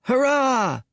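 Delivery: high squeaky cheer. A narrator's reading. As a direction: cheer like a mascot. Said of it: "cried Sun".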